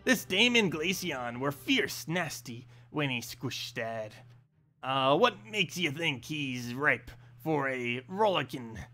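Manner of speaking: rough attempt at an Australian accent; game character with a shaky Australian accent; amateur Australian. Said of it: "it is a more Australian accent".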